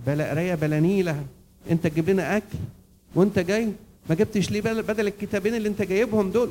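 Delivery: loud, rising mock tirade; acted scolding wife. Wife berates husband for bringing books, scolding. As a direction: nag him with mounting volume and pitch.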